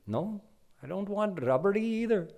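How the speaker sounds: put-on high, whiny little-boy refusal; fussy child. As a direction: pout and drag out either.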